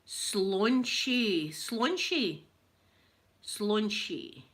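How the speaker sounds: slaunchy, said carefully and slow; trying out a word. Shown as a demonstration. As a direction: sound out slaunchy, testing it. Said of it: "I'd need to hear how it was pronounced".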